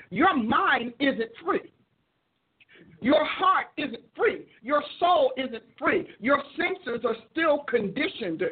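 slow, deliberate preaching, line by line; slow preaching cadence. Acted. Preacher telling the addicts in his church, slow deliberate preaching. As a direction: hammer each phrase home slowly.

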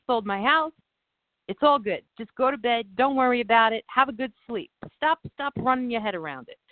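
hint of an Italian accent telling her to relax. Italian buyer tells Christina to sleep, light Italian accent. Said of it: "That was so much better".

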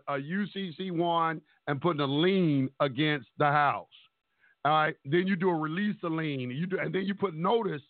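choppy phone line breaking up; buzzy glitchy call audio. Real, not acted. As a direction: voice cutting in and out on a bad call. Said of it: "you breaking up real bad".

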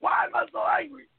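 heated answer with shouted bursts; angry. Real, not acted. Answering the cohost who asked why he's angry, heated. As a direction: let the anger boil over. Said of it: "Ike, why are you so angry?".

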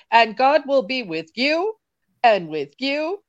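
slow, drawn-out preacher cadence; old preacher. Retold or imitated. A mild preacher impression to friends, slow and drawn out. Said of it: "an old preacher that was like".

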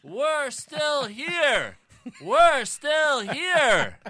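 high, very slow swooning fan voice; mock ladies swooning. Mocking the women swooning over Brady. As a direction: coo it like a lovestruck fan.

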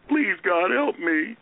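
mock a timid wimp begging God; a feeble whimper of a plea; whiny wimp. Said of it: "like some wimp going".

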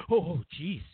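hushed, fast whisper; whispered aside. Retold or imitated. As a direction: whisper it like a stagehand fixing a mistake. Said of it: "They go".

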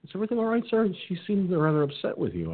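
high, polite clerk voice; lightly voiced concerned cashier; polite young clerk. Young cashier checking on him, lightly voiced polite concern. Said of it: "he goes".

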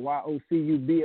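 letters said one at a time; spelling it out. Shown as a demonstration. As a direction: spell out Y O C U B clearly.

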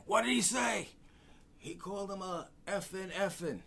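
high, loud eager whispers made loud; nosy teammates egging each other on; excited players. Retold or imitated. Players at the door asking eagerly, high and loud.

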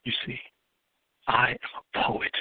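rhythmic slam poetry delivery, building and falling; spoken word poem. Acted. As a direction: perform it like a poet on the open mic stage.

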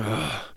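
quiet retold "ugh"; imitated grunt. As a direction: lightly imitate a man's wordless grunt. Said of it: "this guy sort of went".

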